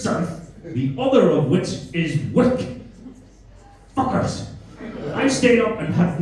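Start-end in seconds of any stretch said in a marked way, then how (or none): 0.0-2.7 South and Wick each said fully as spelt; two separate words. Shown as a demonstration. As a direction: slowly set South apart from Wick. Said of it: "It's two words in your language".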